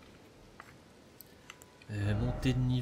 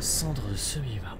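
whisper; 4 dB louder than usual. Real, not acted. Reading item name.

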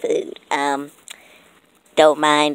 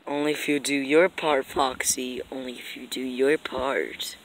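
menacing whisper; 3 semitones lower, 8 dB quieter than usual. Acted. Villain whispers name.

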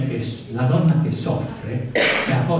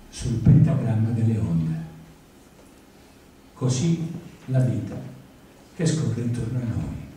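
poem recital. Acted. Poet reading her sea poem to an audience, measured and tender. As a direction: read it like a love letter to the sea. Reads own poem aloud.

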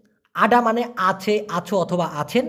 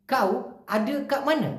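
Malaysian colloquial; 2 semitones higher, 3 dB quieter, much slower than usual. Shown as a demonstration. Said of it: "ঠিক এভাবেই short করে বলে".

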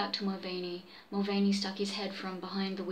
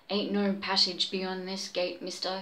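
called out. Acted. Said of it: "he called out".

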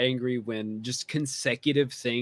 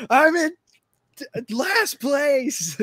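laughing despair; 14 semitones higher, 5 dB louder, slower than usual. Retold or imitated. Retelling sinking to last place.

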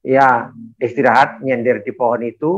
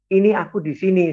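higher-pitched, insistent little call; retold calling out; 6 semitones higher, faster than usual. Husband telling wife he is here, retold call. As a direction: imitate calling to someone who can't hear.

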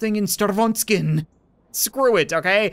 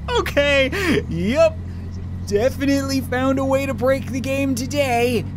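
laughing through words; 7 semitones higher than usual. Real, not acted. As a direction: talk while still cracking up. Cracking up at broken game.

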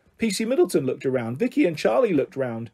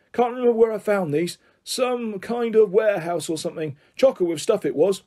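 lightly voiced eccentric old man; rambling grandpa; 4 semitones higher than usual. Grandpa recalls where he found things, rambling. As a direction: muse aloud in a raised pitch. Grandpa character continues his story.

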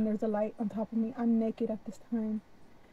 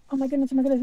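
louder, higher exclamation, repeated; retold panic; 4 semitones higher, 9 dB louder, much faster than usual. Abductee facing the alien once more, panicked. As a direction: burst out, still freaking out. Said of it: "I'm still freaking out".

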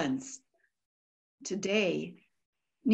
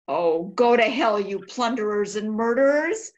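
louder, bitter denunciation; bitter curse; 3 dB louder than usual. Acted. Diarist cursing the plunderers, bitter anger. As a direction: hurl it at the murderers.

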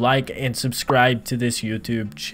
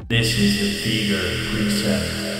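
Fever reverb preset. Shown as a demonstration. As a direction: voice drenched in long, washy reverb. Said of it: "listen to how this plugin sounds".

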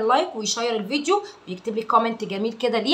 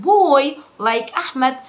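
slow drill; 3 semitones higher, 4 dB louder, much slower than usual. Shown as a demonstration. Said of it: "بدأ يقولها بسرعة".

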